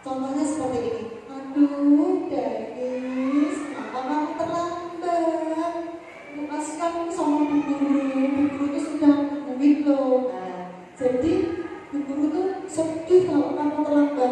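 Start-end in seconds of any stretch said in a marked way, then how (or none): 1.3-10.3 soft pleading tone. Shown as a demonstration. Teacher gently guilt-tripping a late Dennis, soft pleading. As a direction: make him feel guilty, softly and pitifully. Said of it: "dia nadanya halus, seperti memelas".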